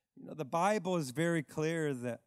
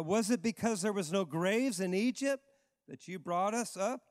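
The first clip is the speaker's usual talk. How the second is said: sarcastic. Retold or imitated. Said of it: "This, this is sarcasm here".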